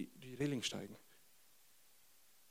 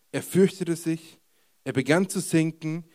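usual speaking voice

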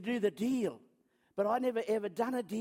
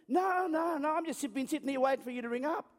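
slightly higher, hurried denial; feigning wide awake; 4 semitones higher than usual. Acted. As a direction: cover up sleep with eager mock denial. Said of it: "you've been sleeping".

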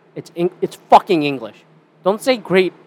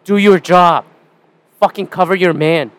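louder, barked coach orders; stern coach demanding effort; Bill Belichick; 2 semitones higher, 5 dB louder than usual. Retold or imitated. Vlogger telling caretakers off like coach Bill Belichick, barking. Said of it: "I go Bill Belichick on this shit".

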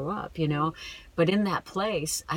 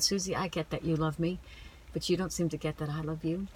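gentle whisper of God; 5 dB quieter than usual. Retold or imitated. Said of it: "It just whispered in my heart".

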